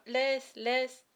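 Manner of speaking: high, loud, distraught pleading; child's anguished cry; sobbed plea. A narrator's reading. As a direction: beg desperately, raising the voice. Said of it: "sanglota l'enfant".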